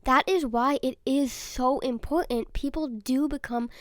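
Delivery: ordinary talk, nothing marked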